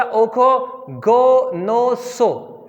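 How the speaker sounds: ओखो गो नो सो with flat Hindi o, loud; wrong o sounds. Shown as a demonstration. Teacher demonstrating the wrong way to students. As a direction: say गो नो सो flat, no glide. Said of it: "wrong".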